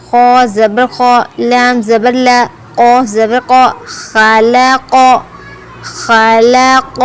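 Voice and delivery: slow, measured syllable-by-syllable recitation; Qaida spelling recitation. Shown as a demonstration. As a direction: chant each letter and vowel evenly, holding the endings. Spells out Arabic syllables for learners.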